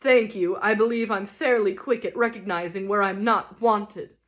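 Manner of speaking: a ham tragedian raging at his wife; stormed. Acted. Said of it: "he stormed".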